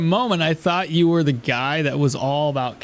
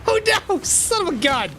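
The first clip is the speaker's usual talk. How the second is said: 1 real dismay; 13 semitones higher than usual. Real, not acted. Dog stuns his character.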